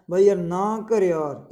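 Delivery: slow, worn-out grumble; exhausted snarl. Shown as a demonstration. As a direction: drag it out like you're too tired to argue. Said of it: "मतलब थके हुए form में वो बोला". (थकी हुई धीमी गुर्राहट)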